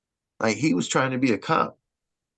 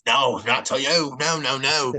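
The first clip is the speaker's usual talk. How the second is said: mock South African cop, relaxed and unbothered; a light South African accent, easygoing, like a cop who doesn't care; imitated South African accent; 4 semitones higher than usual. South African officer shrugging it off to the victim, light South African accent. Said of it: "He sounded just like niggas from fucking Lethal Weapon two".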